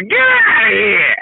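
put-on slow, broad Boston accent; light mock Boston accent. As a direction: drag it out like a Boston local. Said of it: "I just love your accent".

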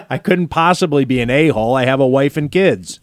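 laughing mock self-defense; smug hollow excuse, half laughing; fake apology. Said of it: "Non-apology apology".

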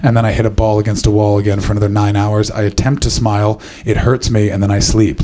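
low, loud monotone plodding recital; Andy Murray. Pretend. Tennis star describing his day to a partygoer, low dull monotone. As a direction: drone the routine like the dullest man alive. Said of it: "talk about with Andy Murray".

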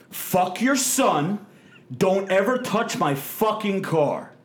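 slow, deliberate, hard threat; slow menacing threat. Retold or imitated. Angry driver threatening the man at the counter, slow and menacing. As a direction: spell out each word like a warning. Retold confrontation in pizzeria.

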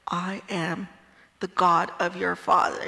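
lightly voiced villain, first words hushed; a playful hint of a menacing movie villain; Darth Vader voice. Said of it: "like, in Darth Vader's voice".

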